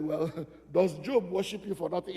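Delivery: light scoffing chuckle mid-speech; mocking devil's laugh. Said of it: "The devil laughed at God and said".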